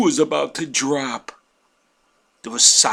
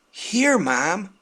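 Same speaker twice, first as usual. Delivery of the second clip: gleeful; 6 semitones higher than usual. Retold or imitated. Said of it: "my wife said with a glee".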